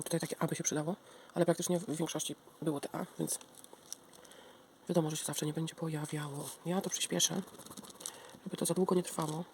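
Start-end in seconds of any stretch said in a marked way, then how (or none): none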